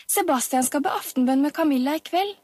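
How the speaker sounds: high-pitched excited report; child calling out. A narrator's reading. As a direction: pipe up with the next bit of gossip. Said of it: "ropte Inga".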